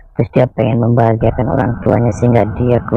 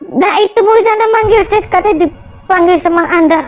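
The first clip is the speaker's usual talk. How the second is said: spirit voice. Acted. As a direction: announce the elder spirit proudly. Spirit introduces Eyang Jenggot. (suara jin tinggi dan lantang)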